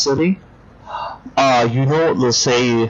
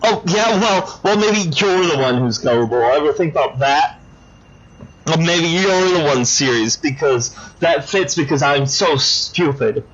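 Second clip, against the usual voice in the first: lightly voiced petulant little-girl villain; childish doll villain; 2 semitones higher than usual. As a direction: pout and whine like a spoiled doll. Dollface sulks back.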